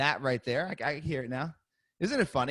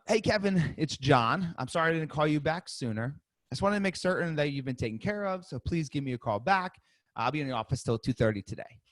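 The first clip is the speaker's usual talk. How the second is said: upbeat voicemail, much higher on the greeting; energetic voicemail demo for the class; 4 semitones higher than usual. Shown as a demonstration. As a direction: lift it, sound eager to help. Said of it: "I'll say it one more time so everybody hears it".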